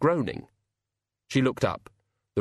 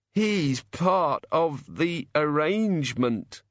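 groaning; 5 semitones higher, much slower than usual. A narrator's reading. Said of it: "said the boy".

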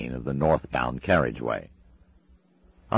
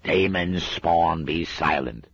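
slow, stern Scottish command; old witchfinder commanding the demon to hush; ordering; 4 semitones higher, 3 dB louder, slower than usual. Acted. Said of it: "ordered Shadwell".

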